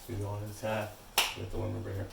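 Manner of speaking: muffled behind a mask; talking through a mask; through a face mask. Real, not acted. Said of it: "excuse my, my mask".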